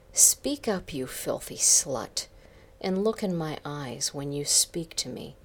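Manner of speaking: commanding, sharp "Speak up" then firm; stern. Acted. Boss sternly ordering Karen to speak up, a touch commanding. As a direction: order her to look at you. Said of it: "he said sternly".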